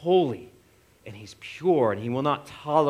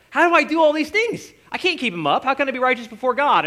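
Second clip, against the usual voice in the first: high, loud, pleading voice of a worn-out believer; desperate, higher-pitched plea; overwhelmed plea; 10 semitones higher, 4 dB louder than usual. Retold or imitated. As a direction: cry out as if buried under rules. Voicing a burdened ordinary Israelite.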